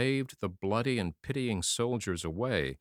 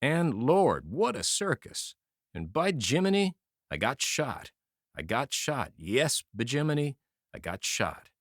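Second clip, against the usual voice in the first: bewildered; 3 semitones higher than usual. Acted. Shot soldier telling his friend, lightly dazed and bewildered. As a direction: say it as if you cannot grasp it happened. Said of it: "in a bewildered way".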